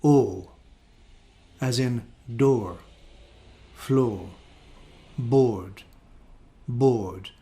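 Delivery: O as in RP, long rounded; RP vowel. Shown as a demonstration. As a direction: say "door", "floor", "board" with the long RP O. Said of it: "received pronunciation for this one is".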